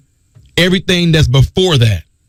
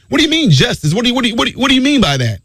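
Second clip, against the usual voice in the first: higher, challenging questioner; mock skeptic; 4 semitones higher, much faster than usual. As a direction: press him like a doubter. Voicing a skeptic questioning him.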